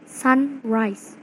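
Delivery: "sunrise" with the weight on "sun"; stress on SUN. Shown as a demonstration. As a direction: say "sunrise", hitting "sun" and easing off on "rise". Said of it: "has the stress on the first syllable".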